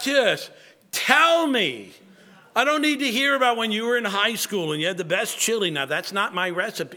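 a fed-up home cook cutting off a rambling recipe blog; impatient cook. Retold or imitated. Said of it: "and you're like".

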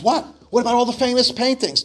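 high indignant demand; outraged, wanting their paintings now. Acted. At the auction, the crowd demands the famous paintings, outraged. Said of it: "demanded the crowd".

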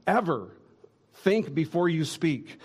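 a preacher imagining himself snapping at Peter; exasperated rebuke. Retold or imitated. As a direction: scold Peter like you've lost patience. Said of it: "or maybe I would have said".

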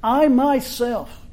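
I myself slowed and stressed on I; emphatic I myself. Acted. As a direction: draw out I myself with weight. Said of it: "what Christ says".

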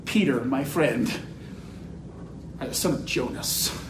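low, hushed words with long pauses; Jesus's gentle reply. Acted. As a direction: drop low and soft, unhurried, letting each phrase settle. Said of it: "Jesus responds by saying".

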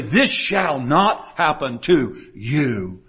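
slow, low, emphatic retelling; measured, low-pitched insistence; strong emphatic statement. Retold or imitated. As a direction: state it firmly, word by word, slowly. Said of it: "he states it very strongly, emphatically".

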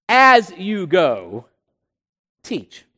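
"as you go" slow and drawn out, pause before "teach"; emphasis on teach. Shown as a demonstration. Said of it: "Going is not the emphasis".

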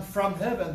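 "from heaven" given clear emphasis; stress on FROM HEAVEN. Shown as a demonstration. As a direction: lean on "from heaven". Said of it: "the emphasis is on from heaven".

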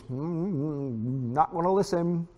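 stubborn, play-acted tuning out; mock refusal to listen. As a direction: hum over it like someone with plugged ears. Mimics people plugging their ears.

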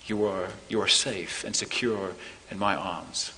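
put-on gently calm a frightened child; hushed fatherly reassurance; tender reassurance. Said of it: "God is saying to us".

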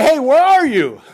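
loud, high call of "Hey, where are you?"; mock door-banging call. Preacher mimics a nosy member shouting at the door. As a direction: pretend to holler through a door. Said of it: "bang on the door and say".

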